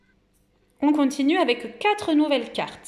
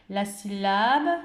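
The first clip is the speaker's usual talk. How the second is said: slow emphasis; much slower than usual. Shown as a demonstration. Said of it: "stretched to show the syllable".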